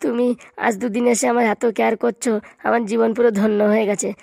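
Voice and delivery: hammed-up weepy plea to her; a touch of fake tears; mock crying. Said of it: "তুমি কান্না করো না".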